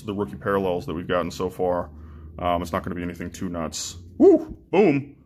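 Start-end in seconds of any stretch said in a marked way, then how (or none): 4.2-5.2 excited cheer. Real, not acted. Big hit pulled from pack.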